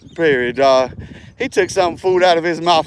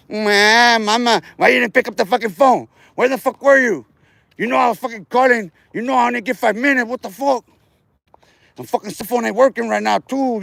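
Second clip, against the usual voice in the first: mock whiny inmate; 4 semitones higher than usual. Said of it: "they go to crying, huh?".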